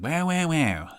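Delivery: high, wailing put-on voice; Josh impression. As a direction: swoop up high and wail each word. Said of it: "That's my Josh impression".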